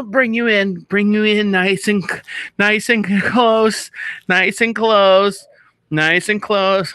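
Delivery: slow, drawn-out cooing to pull someone in close; hammed-up cuddle, stretched slow; a teasing tender embrace said slowly; mock tender hug.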